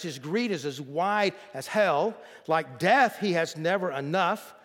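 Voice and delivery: measured, emphatic scripture reading. Acted. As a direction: read the verse out to the congregation with weight. Reads scripture aloud.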